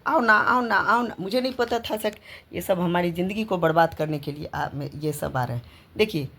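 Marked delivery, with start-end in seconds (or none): 0.1-1.1 lightly mimicked pleading, higher and quick-repeating; imitating coaxing caller. Retelling a caller luring her over, mock coaxing. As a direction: imitate someone coaxing on the phone. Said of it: "call पे कहता था".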